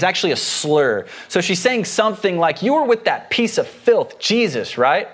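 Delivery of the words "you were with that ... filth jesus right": higher-pitched mild accusation; accusing. Acted. Servant girl accusing Peter over Jesus, accusing. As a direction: spit out a slur as an accusation, understated. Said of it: "She's making an accusation".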